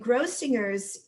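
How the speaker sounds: Grossinger's with a hard G inside, as in singer. Shown as a demonstration. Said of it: "with the hard G".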